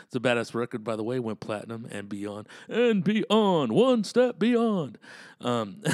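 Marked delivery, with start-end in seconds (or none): 2.7-5.0 higher, louder, slow; hammed-up shout. Echoing his own line with a big mock call. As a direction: belt it out like a hype man.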